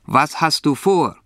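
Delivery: donkey character. A narrator's reading. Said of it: "spricht der Esel".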